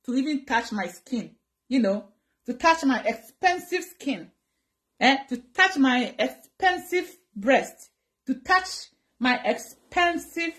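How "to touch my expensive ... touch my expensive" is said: slow and deliberate, dwelling on EXPENSIVE; slow, emphatic boasting. Real, not acted. Vlogger telling viewers nobody may touch her, slow and emphatic. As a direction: spell out each word slowly, proud and offended.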